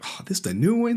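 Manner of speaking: high, mock-excited question; mock curious questioner. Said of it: "You like".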